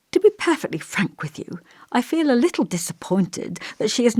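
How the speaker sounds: lightly voiced elderly vicar, musing and gentle; thoughtful old vicar.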